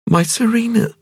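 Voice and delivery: dazed wonder at meeting him; young woman Ping. A narrator's reading. Ping explains doll.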